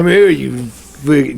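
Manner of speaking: eighties movie bully. Pretend. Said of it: "eighties movies bullies".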